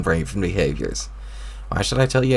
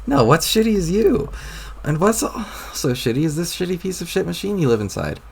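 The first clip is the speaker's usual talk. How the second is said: put-on much higher, furious troll boy; angry retort; 9 semitones higher than usual. Troll boy snapping at the mocking narrator voice, angry. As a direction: throw the insult back hard.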